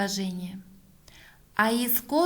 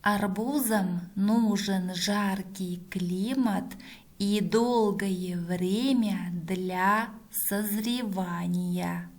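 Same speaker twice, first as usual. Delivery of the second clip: reading back slowly; slower than usual. Shown as a demonstration. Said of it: "Проверяем".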